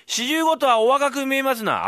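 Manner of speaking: high, loud, slow fawning praise; slow flattering recital; slow mock flattery. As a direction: draw out the compliment. Fool recites flattery again slowly.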